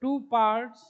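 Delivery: slow word groups with long writing pauses; slow dictation. Real, not acted. Teacher dictates that phospholipids have two parts, slow dictation. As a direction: dictate it piece by piece as you write.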